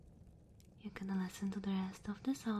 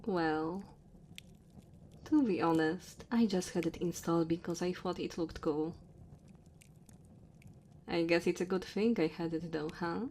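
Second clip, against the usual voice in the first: lightly voiced dragon woman, louder, measured delivery; 10 dB louder than usual. Dragon woman to her cold guest in the cave, gently apologetic. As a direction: play an apologetic dragon host at speaking volume.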